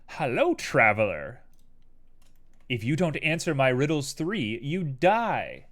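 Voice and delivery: lightly voiced riddle master greeting a traveler; riddling sphinx voice. Streamer voicing viewer Simo as a riddling sphinx, lightly ominous. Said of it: "Everything you do is like".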